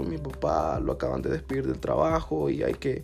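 half-hearted sorrowful pleading; fake sad story. Student faking family hardship to the coordinator, softly sad.

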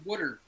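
"wooder", the Philly way of saying water; Philadelphia-accented "wooder"; Philly pronunciation. Shown as a demonstration. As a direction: say "wooder" with an oo in the first syllable. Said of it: "the Philly thing where we say".

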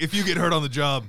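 imitated Boston accent, breaking into laughter; weird Boston accent. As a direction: do a TikTok guy's Boston accent. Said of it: "like, this weird Boston accent".

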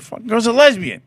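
laughing it out. Retold or imitated. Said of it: "And she won't".

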